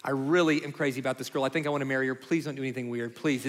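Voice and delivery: low, hushed pleading; retold plea to parents, kept low and soft; earnest plea. Son begging his parents before they meet her, low earnest plea.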